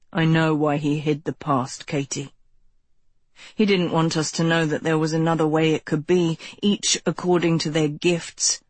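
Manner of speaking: low, persuasive male voice; low cult leader voice. A narrator's reading. Ro voiced in the story.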